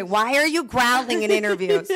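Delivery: mock-scolding Italian mama; Italian mother accent. Daughter imitating her mother's complaint, hammed-up Italian accent. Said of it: "I gave her that accent".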